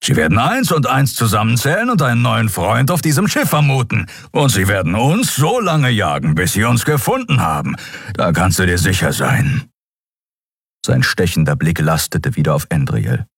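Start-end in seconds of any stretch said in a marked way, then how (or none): 0.0-9.7 higher-pitched, urgent character voice; stern warning. Acted. Warning a shipmate they will be hunted down, stern warning. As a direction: lay out the danger firmly, pitched up.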